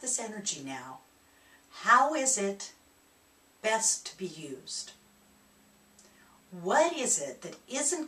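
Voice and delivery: lightly voiced calming inner guide. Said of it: "The voice of calm".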